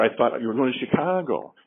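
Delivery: Chicago stressed with a falling tune. Shown as a demonstration. Trainer showing the class stress on Chicago. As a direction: land hard on Chicago. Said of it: "each sentence had the word highlighted".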